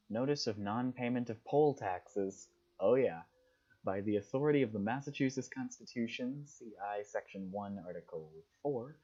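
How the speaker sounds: clear, formal read-aloud of an official notice. Acted. Player reading a newspaper tax notice aloud, formal read-aloud. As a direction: read out the legal notice, starting loud then settling.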